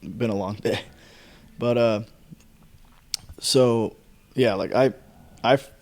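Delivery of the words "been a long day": talking through a yawn. Real, not acted. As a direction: say it mid-yawn. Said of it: "sorry for the yawns".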